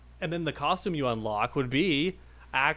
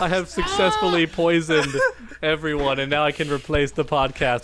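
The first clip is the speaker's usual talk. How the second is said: a hint of a gloating villain, louder; mock villain; 6 dB louder than usual. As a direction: announce the evil plan with mock triumph. Jokes about poisoning co-hosts.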